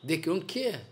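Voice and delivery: dropped to a soft, resigned aside; soft repeat of the phrase; quiet echo. Acted. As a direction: let it fall away under your breath. Repeated line, second much softer.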